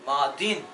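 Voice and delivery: मादिन in two syllables, ending -in; short -in ending. Shown as a demonstration. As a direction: close मादिन on a nasal n. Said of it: "तो मादियुन नहीं पढ़ेंगे".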